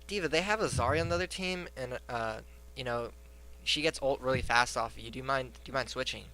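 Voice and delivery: retold polite, hesitant request; casual, courteous team-chat ask. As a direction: ask mildly, with small ums. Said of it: "And I politely said".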